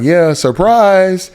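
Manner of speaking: high, loud, drawn-out ta-da; hammed-up "gotcha" to the guys; playful mock reveal. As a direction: announce it like a big silly surprise. Playful mock reveal to his friends.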